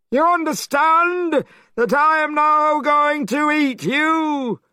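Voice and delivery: monster king. A narrator's reading. Great king demanding the boy's family, high and loud. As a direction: boom out the question like a monster.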